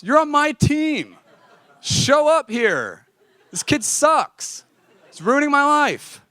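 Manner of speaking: high, loud laughing outburst, words dragged slow; laughing protest. Retold or imitated. To his boss, refusing her kind view of the roommate, laughing and loud. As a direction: protest through laughter, drawing it out.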